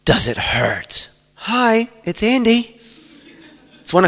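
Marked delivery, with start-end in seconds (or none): 0.1-1.1 low, slow creepy caller; dark demonic voice. Retold or imitated. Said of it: "this voice says". 1.3-2.8 cheerful phone greeting. Retold or imitated.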